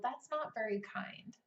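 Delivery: put-on calm correction to a child; gentle parent. Mother gently correcting her four-year-old, calm. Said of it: "I say to my four-year-old".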